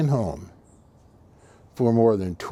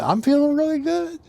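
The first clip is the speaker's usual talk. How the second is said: put-on high, thin voice of a very old man; old man's voice. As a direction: imitate the frail old man, pitched up. Old man quoted at visit.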